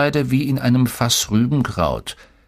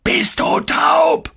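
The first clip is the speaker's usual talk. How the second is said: high, strained, drawn-out scream; much slower than usual. A narrator's reading. Coach screaming at the player who stays put, furious scream. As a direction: scream each word slowly, voice straining. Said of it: "schrie er mich an".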